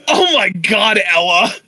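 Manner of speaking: loud drawn-out shout. Acted. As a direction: belt out the name. Shouting imitation.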